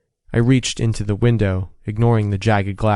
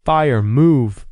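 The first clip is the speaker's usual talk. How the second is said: sharp warning yell; 4 semitones higher, 5 dB louder than usual. A narrator's reading. Racer yelling at trapped partner to run from fire. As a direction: shout the warning to get him moving. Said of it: "I yelled".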